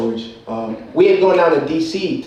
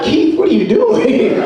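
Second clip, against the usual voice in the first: exasperated friend; 10 semitones higher, slower than usual. Retold or imitated. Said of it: "He's like".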